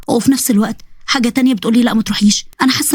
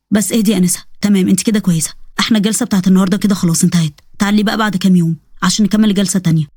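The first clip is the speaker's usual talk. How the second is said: lower, calm doctor voice; 4 semitones lower than usual. Acted. Doctor calmly settling his nervous patient, lower voice.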